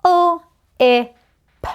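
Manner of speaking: each sound "U, O, G" said separately, high and loud; sounding out words. Shown as a demonstration. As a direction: sound out "U, O, G" letter by letter. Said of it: "I'm going to sound them out first".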